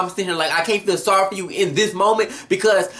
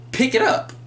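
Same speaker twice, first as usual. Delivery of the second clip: mocking command; 13 semitones higher than usual. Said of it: "dropped the jacket like".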